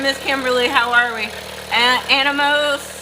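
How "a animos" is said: "Animos" sounded out haltingly after a false start; tentative go at reading "Animos"; unsure name attempt. Real, not acted. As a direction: stumble on the first sound, then slowly try "Animos". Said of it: "I'm not saying that right".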